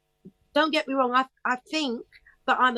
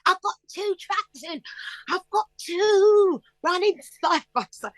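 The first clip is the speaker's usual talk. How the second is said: higher, excited and laughing; thrilled; 10 semitones higher than usual. Retold or imitated. Singer telling how she cheered over her two tracks. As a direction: gush with delight. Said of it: "I'm like".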